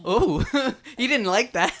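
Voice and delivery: high, laughing through the words. Real, not acted. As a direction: laugh as you say it. Laughing at the dog.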